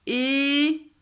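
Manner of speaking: é and reuil loud, cu whispered in écureuil; teacher demonstrating loud and whispered syllables; loud outer syllables. Shown as a demonstration. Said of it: "on disait fort les premières ... doucement la syllabe du milieu".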